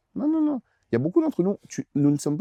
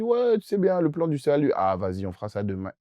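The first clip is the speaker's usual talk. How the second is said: lazy procrastinator; 3 semitones higher than usual. Retold or imitated. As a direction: shrug it off like a lazy friend. God voiced procrastinating, mocking.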